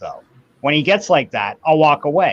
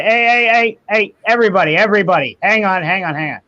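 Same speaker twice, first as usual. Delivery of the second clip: calling for order; 5 semitones higher, 3 dB louder, faster than usual. Pretend. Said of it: "you've gotta monitor it and say".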